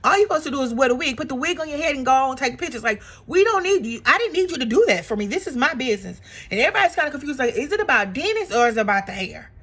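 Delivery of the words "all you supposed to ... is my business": quick, lightly raised angry rant; half-hammed scolding; mock anger. Porsha scolding Drew over her business, in a quick mildly heated rant. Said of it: "It's like".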